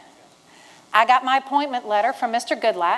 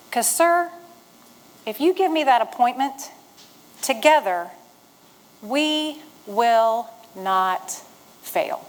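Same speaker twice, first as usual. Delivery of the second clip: slow, deliberate, every word weighed; solemn declaration; slower than usual. Retold or imitated. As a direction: lay each word down slowly with conviction. Recalls the key line to congressman.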